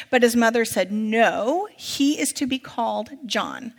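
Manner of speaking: measured public Bible reading; projected, story-like scripture narration. A narrator's reading. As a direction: read the passage out clearly to a congregation. Reads scripture aloud to congregation.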